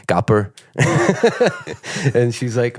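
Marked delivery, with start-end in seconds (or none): 0.1-0.5 put-on the name in a German accent; German-accented "Gapper", short first vowel. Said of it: "like, a German accent".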